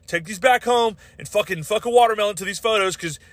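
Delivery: high whiny mock voice of a self-righteous rights guy; ridiculing an entitled camera guy insisting on his rights, high mock whine; mocking entitled filmer. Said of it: "these fuckers go like".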